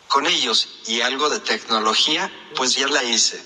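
computer speech synthesizer voice; robotic synthesized speech. Real, not acted. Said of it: "es una voz sintetizada".

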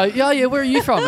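high, over-familiar questioner; lucid weirdo. Retold or imitated. Weirdo quizzing a stranger on the tram, high over-familiar voice. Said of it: "just non-stop with the questions".

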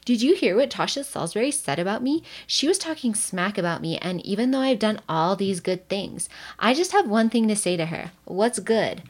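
sassy mock call-out; mock indignant gossip. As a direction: play at social-media outrage, lightly hammed up. Imagined gossipy complaint on social media.

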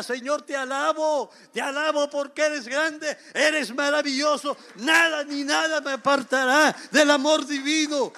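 alabanza que crece, más aguda y más fuerte; alabanza en voz alta. Shown as a demonstration. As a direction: proclama la alabanza con gozo creciente. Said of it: "usted diga". (demostración de alabanza, cada vez más fuerte)

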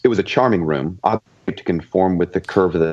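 breaking up over a bad line; crackly cordless phone. Real, not acted. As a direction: voice cutting in and out. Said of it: "You're fading in and out bad".

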